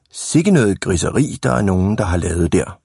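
mild mock indignation; feigned disapproval. Boy pretends to the ladies it wasn't him, mock-disapproving. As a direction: play innocent, tut-tutting with lilting emphasis. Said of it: "vi lader bare, som om det ikke er os".

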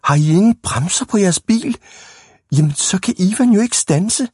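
high-pitched, panicky outcry; alarmed shouting. A narrator's reading. Big boys realise Ivan cannot stop, alarmed shouting. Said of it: "råbte de store drenge i munden på hinanden".

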